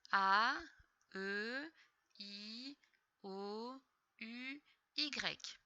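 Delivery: each vowel drawn out, rising; vowels recited together. Shown as a demonstration. Teacher leading a pupil through the vowels, drawn-out recitation. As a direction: chant the vowels one by one with pauses. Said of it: "Tu peux les dire avec moi".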